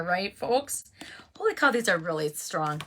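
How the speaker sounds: quick whispered aside; whispering. Real, not acted. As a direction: whisper it to the viewers. Aside about stuck magnets.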